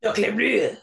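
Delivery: a bad French accent, hammed up; mock French accent. Friends riffing on a bad French accent, mock French. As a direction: say it like a cartoon Frenchman. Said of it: "this bad French accent".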